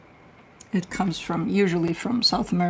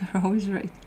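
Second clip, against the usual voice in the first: laughing repeat; faster than usual. Shown as a demonstration. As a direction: chuckle as you say it again. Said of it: "Don't argue with the drunk".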